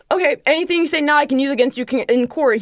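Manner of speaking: rattled-off official warning, imitated; quick, mimicked police recital; cop reciting rights. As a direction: race through the legal spiel like a cop.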